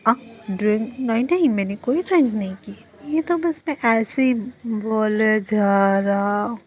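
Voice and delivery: wobbly pitch, stretched last words; acted tipsy denial. Drunk character denies drinking. (नशे में लहराते हुए इनकार)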